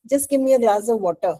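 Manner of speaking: quick, curt order with no please; just tell them to hand it over; blunt demand. Shown as a demonstration. Teacher demos the rude request to the class, curt and quick. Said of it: "Which one is polite".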